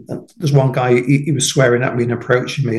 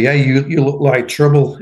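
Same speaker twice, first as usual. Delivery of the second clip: laughing. Retold or imitated. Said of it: "they said to me".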